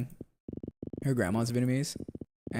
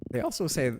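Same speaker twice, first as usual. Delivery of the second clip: voice cracking; 5 semitones higher than usual. Real, not acted. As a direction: voice cracks up high on "also", then breaks off. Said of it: "my voice cracked".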